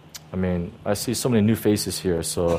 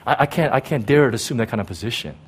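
softer, fast, mock-humble fluster; fake modest protest; 3 dB quieter than usual. Prideful person faking humility to God, softly. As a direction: wave off the praise with showy false modesty. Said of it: "what a prideful person would say".

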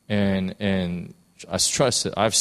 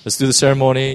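cult leader; 3 semitones higher, 4 dB louder than usual. Retold or imitated. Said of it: "I know that sounds very cultish".

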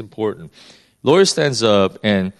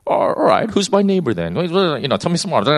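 higher, lightly voiced snooty sneer; snooty guy; 5 semitones higher than usual. Preacher imitating the lawyer asking Jesus, mock snooty and higher. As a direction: play a mildly haughty know-it-all brushing off the answer. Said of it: "some, some snooty guy".

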